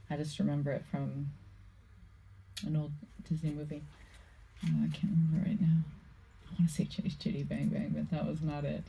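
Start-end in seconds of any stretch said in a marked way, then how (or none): 4.6-5.8 fast whispered aside. Real, not acted. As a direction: whisper it to yourself quickly.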